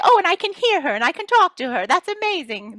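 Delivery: very high, fast, thrilled gush; high breathless wonder; amazed. Pretend. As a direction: rush out the words in delighted disbelief. Amazed at hearing fairy.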